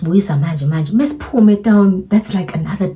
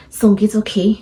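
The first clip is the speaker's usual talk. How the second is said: whispered relief; 4 semitones higher than usual. Retold or imitated. Calming herself before calling Terminator, whispering. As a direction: breathe it out to yourself, relieved.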